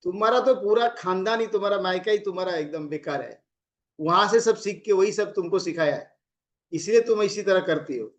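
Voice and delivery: mild mock contempt for her family; other tone, taunting. Shown as a demonstration. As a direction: belittle her family, understated. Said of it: "दूसरे tone में बोल रहा है".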